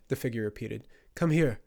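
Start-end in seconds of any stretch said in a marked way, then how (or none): 1.1-1.6 raised, louder command; summoning. A narrator's reading. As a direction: order the boy over. Figure summons the boy.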